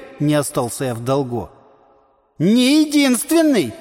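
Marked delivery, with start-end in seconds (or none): 2.4-3.7 high, slow, loud irritated snap; irritated retort. A narrator's reading. Tolstyi corrects the hero in a quarrel, irritated shout. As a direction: cut him off, annoyed and loud. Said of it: "раздражённо заметил Толстый".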